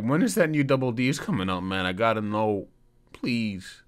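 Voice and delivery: high, put-on begging voice; pleading fan. Fan at the door begs for news, hammed-up pleading. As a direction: plead like a desperate fan, easing off.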